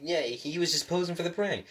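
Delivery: imitated character line. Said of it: "you were probably expecting him to say".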